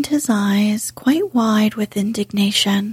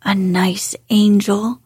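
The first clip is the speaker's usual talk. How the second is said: sneer. Acted. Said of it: "Colin sneered ferociously".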